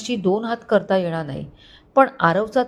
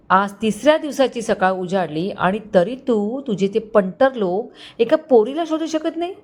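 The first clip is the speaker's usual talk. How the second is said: mild angry shout; 3 semitones higher than usual. Acted. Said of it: "जोरात ओरडली".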